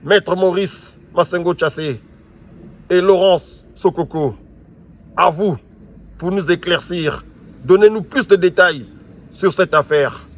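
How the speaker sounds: loud, insistent demand for answers; angry call. Real, not acted. Angry host calling on his guests, loud and insistent. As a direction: raise the voice to summon the guests.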